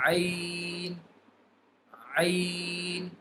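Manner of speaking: ain pressed from the lowest part of the throat; ain from deep throat. Shown as a demonstration. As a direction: push ain up from deep down by the lungs. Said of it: "Ain will be pronounced by the lower end of the throat".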